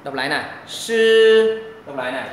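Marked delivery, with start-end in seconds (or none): 0.7-1.6 "Sư" loud, high and long, tongue curled. Shown as a demonstration. Teacher models for repetition, loud tongue-curled "Sư". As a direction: hold a hushing "Sư" with curled tongue. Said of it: "ba chữ này là âm uốn lưỡi".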